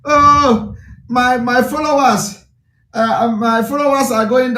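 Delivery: lightly mocking lament; mock crying. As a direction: imitate someone crying over their followers. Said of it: "I saw one of them crying".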